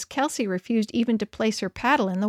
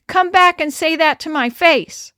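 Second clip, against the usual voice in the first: higher, louder furious shout; 6 semitones higher, 7 dB louder than usual. A narrator's reading. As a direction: yell after the boys, paddle raised.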